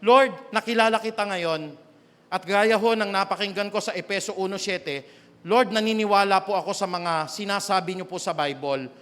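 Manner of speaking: loud, earnest penitent prayer; sinner's loud prayer for forgiveness; pleading prayer. Pretend. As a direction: pour out a confession to God, loud. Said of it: "there is a realization in your heart".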